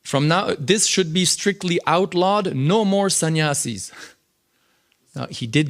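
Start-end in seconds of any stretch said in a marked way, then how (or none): 0.0-3.9 slow, stern, a touch raised; mock angry decree. Quoting angry Prabhupada to the class, slow and mildly stern. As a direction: hand down a firm ban, mildly stern. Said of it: "So Prabhupada's angry".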